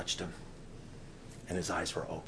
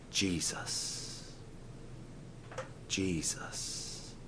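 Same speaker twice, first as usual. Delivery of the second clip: hushed, low, breathy utterance; breathed name; 5 semitones lower, 13 dB quieter, much slower than usual. Shown as a demonstration. Preacher showing campers how to breathe the name, hushed. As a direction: breathe it out softly and unhurried. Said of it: "just simply breathed the name".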